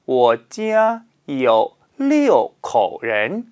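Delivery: 我家有六口人 read slowly and clearly as a model; model answer. Shown as a demonstration. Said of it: "우리는 여섯 명으로".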